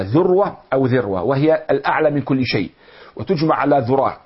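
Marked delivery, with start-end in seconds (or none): 0.0-1.2 ذروة first with u, then with e; ذروة as ðurwa, then ذروة as ðerwa; two vowel forms. Shown as a demonstration. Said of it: "بضم الذال أو بكسرها". (ذروة بالضم ثم بالكسر)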